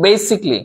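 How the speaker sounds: "Basically" in three beats, "BAY-sik-lee"; correct pronunciation. Shown as a demonstration. Teacher answering own question on pronunciation, "Basically" said as "BAY-sik-lee". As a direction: join "k" straight onto "lee" in "Basically". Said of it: "উচ্চারণটা কি".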